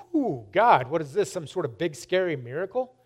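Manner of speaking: mildly spooked, rising question; retold startled reaction. Retelling reaction to finding Bible.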